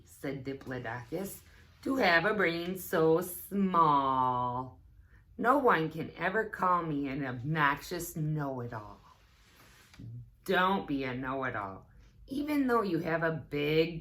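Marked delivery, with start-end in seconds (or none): 1.8-9.0 proud dinosaur. Acted. Diplodocus continues quote.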